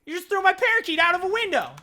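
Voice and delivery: high, shrieking scream of a woman in shock; retold scream. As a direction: scream it like she just watched her pet get thrown out. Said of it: "the woman screams".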